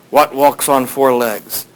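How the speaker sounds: slow, deliberate riddle delivery; recited slowly and evenly; posing a riddle. Retold or imitated. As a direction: measure out each phrase of the riddle. Sphinx poses its riddle.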